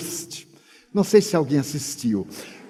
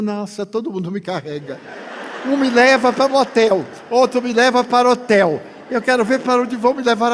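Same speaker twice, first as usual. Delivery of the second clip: laughing at how everyone carries him off; laughing complaint; 4 semitones higher than usual. Real, not acted. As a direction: complain with amusement. Amused complaint, laughs heard.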